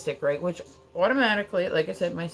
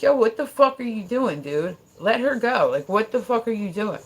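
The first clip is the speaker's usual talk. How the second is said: raised voice, retold telling-off; heated, louder and higher challenge; loud confrontation; 4 semitones higher, 4 dB louder than usual. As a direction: loudly order him to stop. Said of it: "I got loud".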